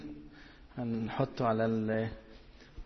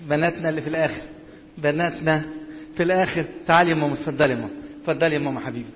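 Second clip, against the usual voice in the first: raised voice calling to the back; 3 semitones higher, 4 dB louder than usual. Real, not acted. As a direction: usher a congregation forward, projecting. Calling people at the back forward.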